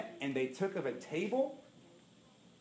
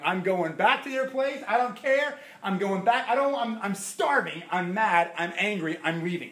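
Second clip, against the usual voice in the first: louder, higher retold tantrum, half-joking; mock angry huff; 4 semitones higher, 4 dB louder than usual. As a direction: storm off in a playful huff. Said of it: "I got so mad".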